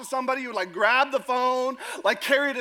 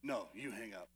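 giggly late night call; 17 dB quieter than usual. Retold or imitated.

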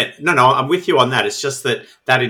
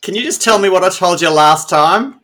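higher, questioning put-on voice; mock sheepish caller; 6 semitones higher, 4 dB louder than usual. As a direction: play a scatterbrained witness phoning back. Mock phone call as Laverne.

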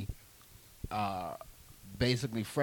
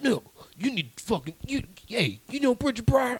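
put-on pitched up, pushy old man urging him on; hammed-up older man, higher and louder; older gentleman; 11 semitones higher, 3 dB louder than usual. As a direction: lean in like an insistent older guy hyping a young comic. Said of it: "he was like".

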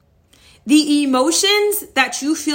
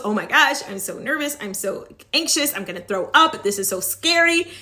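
mock nervous fretting; 2 semitones lower than usual. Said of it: "Instead of having those".

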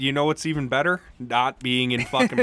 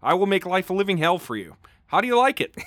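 acted threat building in pitch; mock yell; 3 semitones higher, faster than usual. Jailed Harry threatens his brother Artie, mock yell rising higher. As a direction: deliver a threatening rant, rising toward the end. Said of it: "Harry yelled at him".

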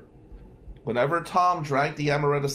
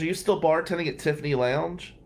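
mocking; 5 semitones higher than usual. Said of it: "Mocking me".

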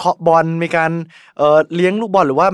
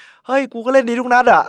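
a high, self-assured retort; cocky retort; 7 semitones higher than usual. Retold or imitated. Mo answering his teammate's jab, cocky mock retort. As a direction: toss it back like a cocky star striker. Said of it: "โมซาร่าห์บอก".

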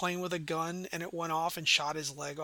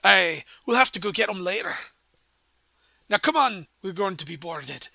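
pirate dwarf, loud then easing off; rally a crewmate as a dwarven pirate; pirate dwarven accent; 5 dB louder than usual. Acted. Pirate urging the player on before boarding, pirate dwarven accent. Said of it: "his, like, pirate dwarven accent".

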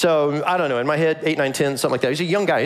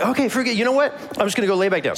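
high, mildly exasperated giving up; frustrated; 6 semitones higher, faster than usual. Acted. Boy gives up and heads back to bed, mildly frustrated. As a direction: drop it with a touch of frustration. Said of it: "they're both really frustrated".

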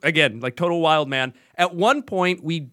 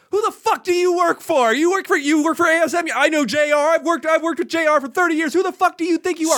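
hammed-up raging old-timer yelling; retold screaming; 10 semitones higher than usual. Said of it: "started screaming at him".

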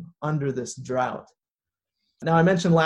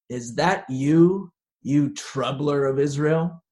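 gravelly voice; slower than usual. Acted. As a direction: sneer it in a rough gravelly voice. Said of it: "I almost have to read this with, like, a gravelly voice".

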